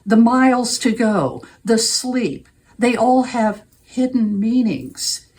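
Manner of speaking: measured poetry reading with deliberate pauses between phrases; poem reading. Acted. Poet reads a favorite poem to her audience, poem reading. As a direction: read the poem aloud, setting each image apart.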